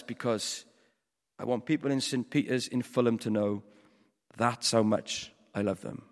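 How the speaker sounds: low-pitched, gentle voice of God; tender answer. Acted. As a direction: answer the cry with calm love. God answers the cry with love.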